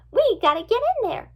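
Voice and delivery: high, loud, keen voice; high-pitched rallying cry; eager urgency. A narrator's reading. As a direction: urge the group inside. Eager friend urges rescue.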